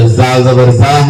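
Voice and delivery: "زا زبر زا" slowly, tongue tip to upper teeth; dhaal letter demo. Shown as a demonstration. Teacher showing one of four look-alike letters, slow dhaal "زا زبر زا". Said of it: "رال زبان کی نوک کو اوپر کے دانتوں کو لگانے سے".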